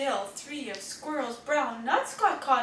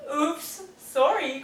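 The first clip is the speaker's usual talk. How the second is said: mild oops cry; 2 semitones higher, 3 dB louder, slower than usual. Acted. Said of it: "cries Francine".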